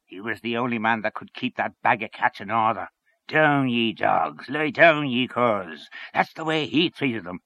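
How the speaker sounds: emphatic character voice, slowing on the commands; hearty storyteller's bluster; fierce, approving Henchy. Acted. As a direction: relish the stern orders as you quote them. Voices Henchy praising and imitating.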